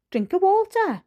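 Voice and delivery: a father's outraged echo; incredulous echo. A narrator's reading. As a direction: throw the words back in disbelief. Father repeats in disbelief.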